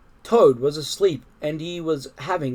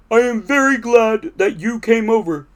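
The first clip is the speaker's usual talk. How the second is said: high, loud, glad voice; Toad's voice; 7 semitones higher, 7 dB louder than usual. A narrator's reading. Toad thanks Frog for coming over, high glad voice. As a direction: tell a friend gladly in a raised voice.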